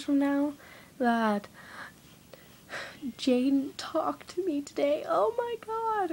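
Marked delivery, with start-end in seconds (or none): 3.2-6.1 high, drawn-out "oh my god" squeal; mock gushing. Imagining a trivial diary entry, mock gushing. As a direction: gush like a hammed-up diary entry.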